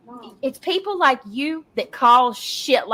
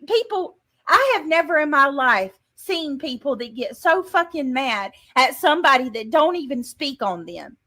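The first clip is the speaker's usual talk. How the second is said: angry. Real, not acted. Livestream rant at rival.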